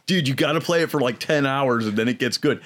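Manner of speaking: laid-back surfer dude. Retold or imitated. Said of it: "I'm gonna do the surfer voice too".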